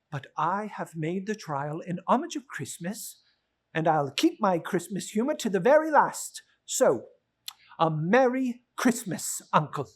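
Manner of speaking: a hint of the cheerful nephew, amused disbelief; lightly voiced nephew. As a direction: gently tease the grumpy uncle. Nephew's farewell plea.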